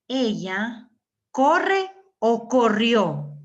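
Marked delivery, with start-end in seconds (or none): 1.3-3.4 corre o corrió said slowly and louder, offering both forms; slow questioning choice. Shown as a demonstration. Teacher asking students which tense is right, slow and louder. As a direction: stretch out both options for the class. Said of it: "¿Quién me puede ayudar aquí?".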